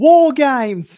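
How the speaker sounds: loud, bellowed, badly done British accent. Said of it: "I can't do the British accent".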